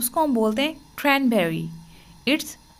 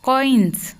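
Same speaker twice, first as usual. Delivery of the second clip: whispered word; 4 dB louder than usual. Shown as a demonstration. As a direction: breathe out "कॉइन्स" without voice. Repeating word in drill.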